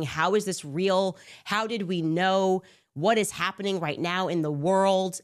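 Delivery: freaking out. Retold or imitated. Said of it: "We were freaking out".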